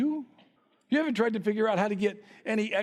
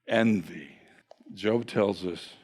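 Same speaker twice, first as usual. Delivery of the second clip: hushed, much lower whisper; 14 semitones lower, slower than usual. Acted. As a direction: drop to a whispered hush for effect. Sudden whispered word.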